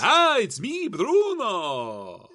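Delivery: put-on high, loud German-accented caricature; Bruno, German accent. Co-host asks for Bruno, hammed-up German accent. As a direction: belt it out in a silly German accent. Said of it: "give me Bruno for about four minutes".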